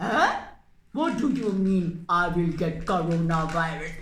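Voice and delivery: fast, half-laughing disbelief; baffled cat. Acted. Cat puppet baffled by the mouse's warning, laughing. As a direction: scoff in disbelief.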